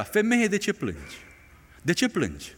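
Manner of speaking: soft, tender question; gentle angel voice. Acted. Angels asking weeping Mary why she cries, softly. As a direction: ask it gently, as comfort.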